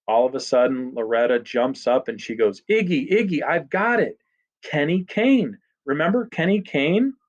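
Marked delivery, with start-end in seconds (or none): 2.7-7.1 high-pitched eager outburst; excited recognition. A narrator's reading. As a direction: burst out with the memory, voice lifted. Loretta jumps up, suddenly remembering.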